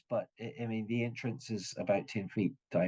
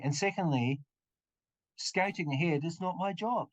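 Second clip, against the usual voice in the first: mildly indignant whine, pitched up; whining complaint; 2 semitones higher than usual. Acted. Injured hireling refusing to scout ahead, whining. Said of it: "injuring my ears with your whining".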